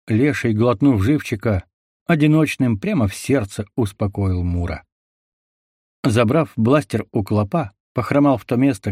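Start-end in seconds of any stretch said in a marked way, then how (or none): none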